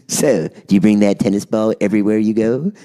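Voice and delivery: low-pitched smart-ass imitation. Producer asking David about his tennis ball, smart-ass. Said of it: "like, real smart ass".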